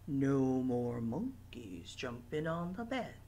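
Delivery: hushed whisper for sleepy monkeys. Pretend. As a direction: whisper it like the monkeys are asleep. Doctor's line, hushed for naptime.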